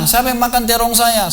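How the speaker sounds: high, slow startled cry from the wife; high surprised shout, held slow. Retold or imitated. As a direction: call out who ate the eggplant, pitched high. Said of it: "teriak gitu kan".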